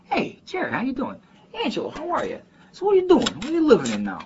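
very high-pitched imitated Chicago greeting; Chicago neighborhood accent. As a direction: slip into high-pitched Chicago small talk with old pals. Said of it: "Fall into it like that".

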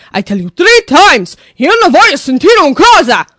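imitated furious yell, high and loud; mock-enraged father shouting; freaking-out Italian father. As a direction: explode like an Italian dad at the end of his rope. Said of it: "he started freaking out".

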